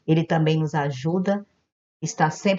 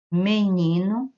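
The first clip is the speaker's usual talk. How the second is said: drawn-out example word; 2 semitones higher, slower than usual. Shown as a demonstration. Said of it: "paroxítona".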